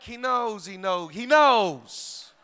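slow repetition. Acted. Preacher slows the repeated line.

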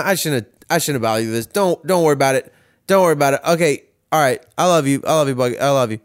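lightly imitating a reassuring dad; dad hurriedly signing off. Dad ends late-night call with child, hurried imitated reassurance. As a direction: repetitive retold reassurance, winding down to a goodbye. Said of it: "and he's like".

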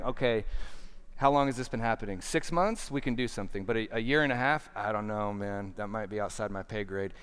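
quick, offhand, sizing up the odds like a clerk; hammed-up shrug of a Jesus doing the math; mock casual calculator. Pastor mocks a Jesus tallying the father's answer, quick and offhand. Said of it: "It's not like Jesus is standing with the dad going".

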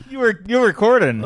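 laughing tease. Real, not acted. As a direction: tease him while laughing, pitch up. Teasing repeat with a laugh.

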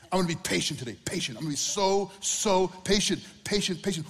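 strained, insistent self-talk, slowing on so patient; mock forced resolve. Preacher mocks someone forcing patience, strained chant. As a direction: grit out a resolution you can't keep.

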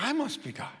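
a cat's smug line, pitched well up. Retold or imitated. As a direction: tip it up high like a cocky cat. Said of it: "Or like a cat?".

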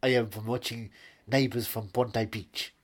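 Australian accent slipping into German; unconvincing Australian accent with German vowels; bad Australian accent. Shown as a demonstration. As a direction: attempt a hearty Australian greeting, badly. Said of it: "let's have your Australian accent".

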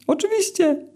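very high, thin and squeaky, slowed down; squeaky eel begging for mercy. A narrator's reading. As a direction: plead in a tiny squeaky eel voice. Eel answering.

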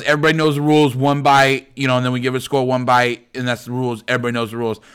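light mock Boston accent; bad Boston accent. Podcaster quoting the reviewer's one-bite rule, bad Boston accent. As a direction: imitate a Boston reviewer reciting his catchphrase. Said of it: "That's a really bad Boston accent".

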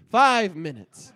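villain gloating over the countdown; menacing villain. Acted. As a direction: draw it out like a threat. Villain's final warning.

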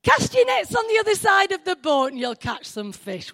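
mock calling across the water, no real shout; retold calling out. Jesus calls to Peter out in the water, retold shout. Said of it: "Jesus shouting to Peter".

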